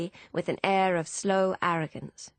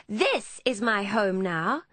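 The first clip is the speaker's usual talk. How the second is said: higher, drawn-out protest; defiant; 4 semitones higher, 3 dB louder, slower than usual. Acted. Emmeline shaking off Hannah's grip, defiant. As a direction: stand your ground, slowly. Emmeline shakes free, defies her sister.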